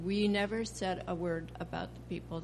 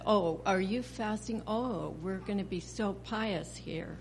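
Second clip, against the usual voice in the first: mocking. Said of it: "the joking and the mocking".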